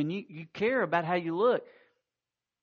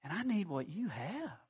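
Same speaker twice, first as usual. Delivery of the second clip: tearful confession; 7 semitones higher than usual. Retold or imitated. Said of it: "he just starts weeping".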